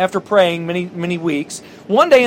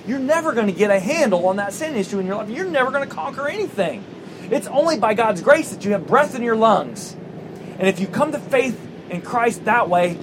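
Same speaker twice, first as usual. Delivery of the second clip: Paul scolding Chuck. Acted. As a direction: scold fondly, like Paul rebuking a foolish believer. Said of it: "And Paul's like".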